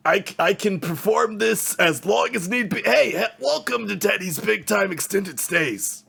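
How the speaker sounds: high, loud, eager innkeeper voice; overly friendly desk clerk, straining upward; cheery hotel clerk. Acted. GM plays Teddy the clerk.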